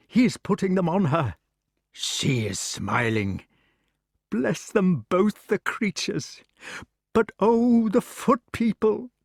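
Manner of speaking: the king, anxious from the window; excited old king. Acted. Arthur watching.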